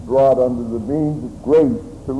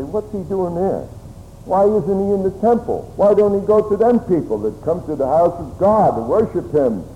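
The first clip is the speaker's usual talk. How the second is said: mildly indignant, higher-pitched objection; murmured complaint; 5 semitones higher than usual. Acted. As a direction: voice the disapproving onlookers' grumbling at the company he keeps. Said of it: "to murmur and to complain".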